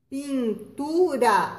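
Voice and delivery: Pintura very slowly, light tapped r; soft R. Shown as a demonstration. Teacher modelling the soft R for children, slow. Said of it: "Eles têm o som brando".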